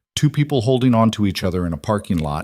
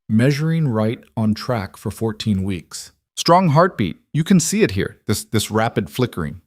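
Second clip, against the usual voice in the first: warm. Acted. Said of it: "her voice warm".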